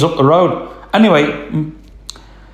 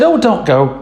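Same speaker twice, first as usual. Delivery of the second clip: farmer's wife; 7 semitones higher than usual. Retold or imitated. Farmer's wife pleading, high voice.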